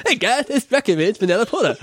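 badly faked British accent; English accent. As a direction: ham up a silly English accent. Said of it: "That's an English accent".

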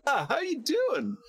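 slow, high mock woman's voice; flirty caller. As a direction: drawl it like a flirty cold caller. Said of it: "and she goes".

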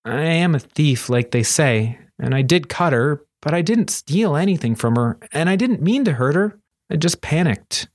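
lightly voiced young thief owning up; Kuro, confessing. Thief confessing to his friends at table, lightly voiced.

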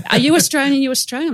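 high, eager question in a badly faked Papuan accent. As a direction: imitate an excited Papuan woman's accent, pitched high. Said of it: "automatic bad accent".

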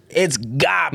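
Boston accent, said "kahbage". Shown as a demonstration. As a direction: drop the r like a Bostonian. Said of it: "I'm saying it in a Boston accent".

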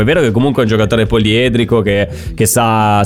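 ordinary talk

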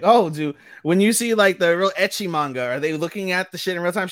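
mock pervert guy, pitched high and eager to ask. Pervert guy asking about ecchi manga, high mock voice. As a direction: put on a high voice for the creepy question. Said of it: "the pervert guy is like".

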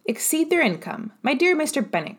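high astonished cry of disbelief; a wife exclaiming in shock, pitched well up; mildly voiced astonished wife. Wife exclaims at husband's remark.

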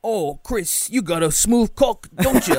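high teasing come-on voice; sleazy high sweet-talk; high mocking seductive voice. Mocking friend seducing Chris.

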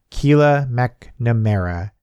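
slow, fond recognition of the name; warmly. Acted. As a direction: savour the name like an old friend. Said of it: "Grandma said warmly".

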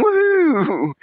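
high excited woohoo; delighted falsetto whoop; mock cheer. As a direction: whoop at the new toy. Finds a squirt gun.

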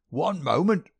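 high, loud querulous cry; an old miser calling out to stop them; querulous old man. A narrator's reading. Old man interrupting the detective, high querulous cry. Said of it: "cried a querulous voice".

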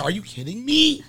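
high-pitched mock indignation; leaning into white woman. Passenger leaning into his comeback, high mock outrage. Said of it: "I leaned into it".

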